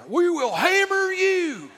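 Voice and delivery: high, slow, loud ad-lawyer boom; Texas hammer lawyer. Acted. Pastor mocking the argumentative lawyer, booming ad voice. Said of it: "They're the actual Texas hammer".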